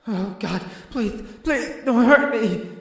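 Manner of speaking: high, rising plea for mercy; frightened pleading. Acted. Chained elven man begging approaching strangers, terrified. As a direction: beg them, voice climbing.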